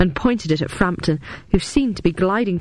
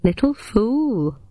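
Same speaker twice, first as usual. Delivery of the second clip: contemptuous; 4 semitones higher, much slower than usual. A narrator's reading. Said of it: "replied Frampton".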